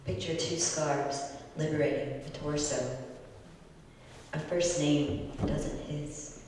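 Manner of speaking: measured, deliberate poetry reading; poem reading. Acted. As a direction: read it like an elegy at a reading. Poet reads elegy poem aloud.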